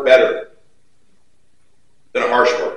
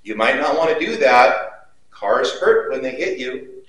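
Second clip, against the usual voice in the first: mock gentle mom; 2 semitones lower, 5 dB quieter than usual. Mom mildly warning her son as a car comes. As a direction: coax the kid softly, far too calmly. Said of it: "Mom doesn't go".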